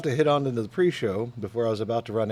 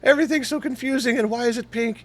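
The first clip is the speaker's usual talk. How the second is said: high, bewildered little voice; mock confused voice; 11 semitones higher, 4 dB louder than usual. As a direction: squeak it out, lost and confused.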